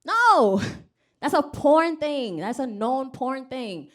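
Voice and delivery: loud, high, emphatic warning; alarmed friend. Retold or imitated. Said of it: "she was like".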